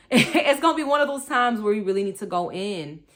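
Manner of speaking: laughing through a wave of real emotion; emotional laugh. Real, not acted. Vlogger to viewers, laughing off sudden feelings, real emotional laugh. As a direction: laugh it off while moved. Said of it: "why am I getting emotional about this?".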